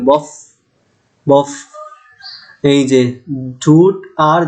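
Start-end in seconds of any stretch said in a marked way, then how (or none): 0.0-1.5 বফ with lip and teeth friction at the end; demo fricative f. Shown as a demonstration. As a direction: let air hiss through the lips on বফ. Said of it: "যেমন বফ যদি বলি". (বফ শব্দে শেষে ঘর্ষণ করে ফ)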